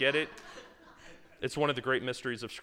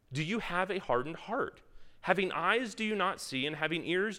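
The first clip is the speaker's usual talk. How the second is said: a lightly raised, earnest Bible reading voice; scripture reading; 3 dB louder than usual. Acted. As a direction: read the passage to the group with gentle weight. Reads Mark passage aloud.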